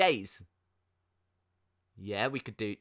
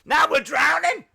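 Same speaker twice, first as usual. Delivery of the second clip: Now we're drowning shouted higher and louder; Now we're drowning, much louder and higher; louder exclaim; 9 semitones higher, 6 dB louder than usual. Real, not acted. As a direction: yell it out in mock panic. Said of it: "repeated louder".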